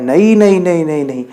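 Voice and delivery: rapid-fire acted string of no's; a touch of desperate protest; pleading refusal. Stone refuses the sculptor's persuasion.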